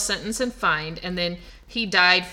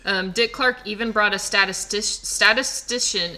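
numb tongue, slurring a little; numb from the dentist. Real, not acted. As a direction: struggle through a numb mouth. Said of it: "It's hard to say when my tongue's still numb".

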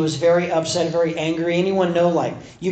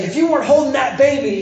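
quick, high mock threat; imitated angry threat; 7 semitones higher, 4 dB louder, faster than usual. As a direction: act out barely held-back anger, fast. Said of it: "he's angry, he's mad".

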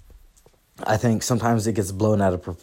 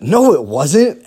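slow, louder dismissive "No, it wasn't."; a louder, slow dry comeback; flat cold reply; 5 semitones higher, 7 dB louder, slower than usual. Retold or imitated. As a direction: deliver it as a slow put-down. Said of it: "and I said".

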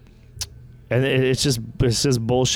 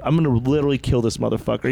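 inner rant; faster than usual. Retold or imitated. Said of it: "in my head I was like".

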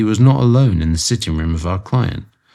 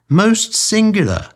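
slow, much higher, far-off voice; distant voice; 13 semitones higher, slower than usual. A narrator's reading. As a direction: sound far away down the line. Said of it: "said the distant voice".

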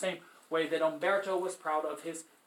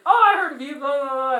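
high, louder breezy student voice; mock student; 8 semitones higher, 10 dB louder than usual. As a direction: toss it off like a bored kid. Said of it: "they'll be like".

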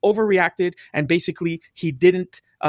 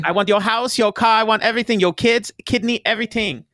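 put-on higher Asian-accented caricature; mock Asian accent; 4 semitones higher than usual. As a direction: make greedy demands in a mock Asian accent. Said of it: "I don't know why I did that accent".

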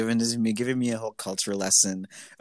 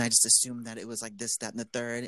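customer service voice; 3 semitones higher than usual. Retold or imitated. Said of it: "in my customer service voice".

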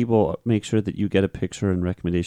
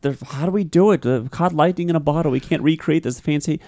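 mock baffled execs; 7 semitones higher than usual. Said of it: "and they're like".

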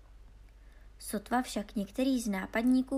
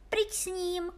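princess dismissing a suitor, higher voice; odmítavá princezna; 9 semitones higher than usual. Acted. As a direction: wave him off like a haughty princess. (vyšším hlasem odmítavá princezna)

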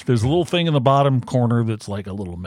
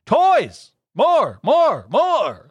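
excited; 10 semitones higher, much slower than usual. Acted. Reading fan message excitedly.

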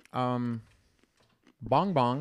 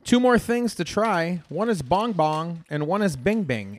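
excited announcement; 2 semitones higher, 4 dB louder, slower than usual. Real, not acted. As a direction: announce it like a big reveal. Hyping next snacks.

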